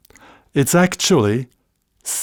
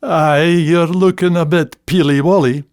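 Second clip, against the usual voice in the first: Scots teasing; 4 semitones higher than usual. Shown as a demonstration. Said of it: "the next day we'll say".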